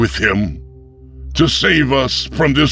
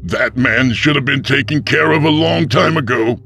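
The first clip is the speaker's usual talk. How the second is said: higher, loud accusing outburst; furious grandson; 12 semitones higher, 4 dB louder than usual. Acted. Tep accuses the pastor of killing his granddaddy, furious. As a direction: hurl it at the killer.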